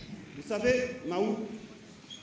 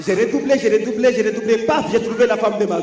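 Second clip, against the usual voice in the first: punchy stand up comedy; 7 dB louder than usual. Acted. Repeated punchline.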